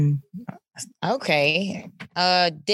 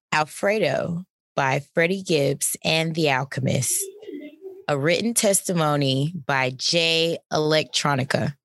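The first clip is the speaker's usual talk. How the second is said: announcer voice. Shown as a demonstration. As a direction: present each nominee like a host. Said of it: "I wanna get my announcer voice".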